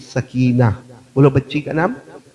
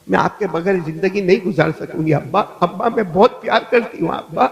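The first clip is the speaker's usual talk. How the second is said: pleading little daughter; 4 semitones higher than usual. Retold or imitated. Little Sakina begging her father not to leave, lightly acted pleading.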